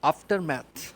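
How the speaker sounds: aftermath said loud and high as "af-ter-math", falling; model pronunciation. Shown as a demonstration. Teacher modelling a word for children to repeat, loud. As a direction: call out aftermath clearly for children to copy. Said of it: "اس کے بعد word ہے".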